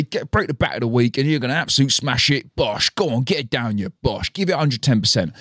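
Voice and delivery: lightly voiced hype-man cheering from a cafe; a hint of a laddish motivational guru; Tom Skinner impression. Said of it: "That was a really good impression".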